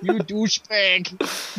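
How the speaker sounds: slow, drawn-out mocking insult; gleeful jeering. Real, not acted. Gamer jeering the lured player, drawn-out mockery. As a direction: stretch out the taunt.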